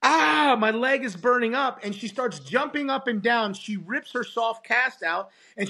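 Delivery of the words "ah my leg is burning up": mild mock scream. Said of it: "the young girl screams".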